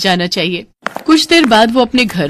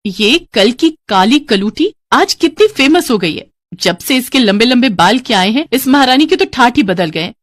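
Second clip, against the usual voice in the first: जलन भरा; 3 semitones higher than usual. Acted. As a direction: sneer enviously at the sister's fame. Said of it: "Niharika को उससे बहुत जलन होती है". (ईर्ष्या भरा ताना)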